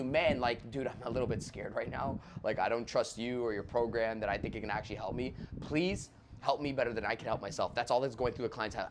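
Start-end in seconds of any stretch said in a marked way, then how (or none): 0.0-7.8 scared client. Retold or imitated. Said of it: "The client's just telling you".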